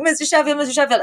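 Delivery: high-pitched searching call; mock calling out. Fran running through the house looking for him, mock calling out.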